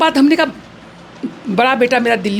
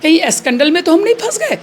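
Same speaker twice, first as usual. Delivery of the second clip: higher, asked through a laugh; laughing retold question; 5 semitones higher, faster than usual. Mother asking husband about the scandal, laughing and higher. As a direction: laugh while you repeat the worry. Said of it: "हम इनको पूछे हैं".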